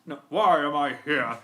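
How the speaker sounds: lightly voiced indignant engine; Gordon. Engine bemoaning where he is, in Gordon's voice. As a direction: complain with heavy emphasis on each why. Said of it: "What about Gordon?".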